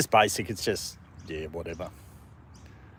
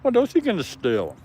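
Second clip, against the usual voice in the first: much higher, laughing at the thief; laughing tease; 11 semitones higher than usual. Real, not acted. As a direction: tease the dog through laughter. Laughing at the dog.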